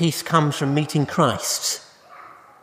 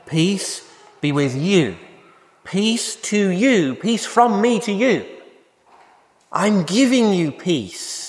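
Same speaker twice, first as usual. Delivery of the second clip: slow, rising in pitch, tender; gentle offering of peace; 4 semitones higher, slower than usual. Acted. Jesus speaking peace to disciples, slow tender build. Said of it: "Jesus speaking peace".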